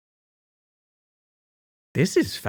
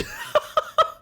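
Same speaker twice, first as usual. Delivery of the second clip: high burst of laughter. Real, not acted. Big laugh.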